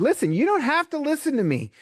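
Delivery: teacher raising her voice at a rowdy class; commanding call to order. Retold or imitated. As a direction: call out to make restless kids listen. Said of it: "And finally I said".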